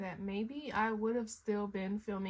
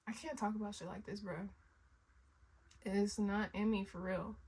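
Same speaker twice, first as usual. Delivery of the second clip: teary; 4 dB quieter than usual. Real, not acted. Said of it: "the tears away, but they are rolling".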